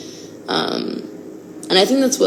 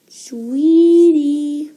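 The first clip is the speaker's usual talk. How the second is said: pet call; 8 semitones higher, 7 dB louder, much slower than usual. Real, not acted. Calling puppy.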